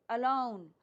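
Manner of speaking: "अलोन" with a weak अ and stressed लोन; stress on second syllable. Shown as a demonstration. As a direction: lean on लोन in "अलोन", keep अ light. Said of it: "अ पे नहीं आएगा, लाउन पे आएगा". ("अलोन" में अ हल्का, लोन पर ज़ोर)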